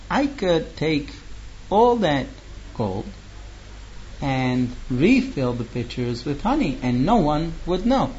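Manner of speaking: quiet scheming. Acted. Man plotting to steal the gold, hushed and scheming. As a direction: murmur the plan like a secret.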